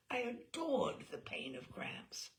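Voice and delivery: slow, secret whisper; whispered admission; confiding whisper. Real, not acted. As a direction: let it out like a guilty confession. Confessing a secret pleasure.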